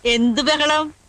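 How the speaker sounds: slow, laughing feigned innocence; laughing denial. Acted. Grandmother denying the uproar to the lawyer, laughing innocently. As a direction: laugh it off as if nothing happened.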